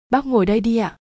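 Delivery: lightly voiced girl politely offering her seat to the father; girl's polite voice. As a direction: offer the seat sweetly, like a well-mannered girl.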